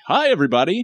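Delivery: high, chirpy greeting; light, high voice with no rasp. Shown as a demonstration. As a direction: pitch it well up, like a squeaky hello. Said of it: "Instead of like".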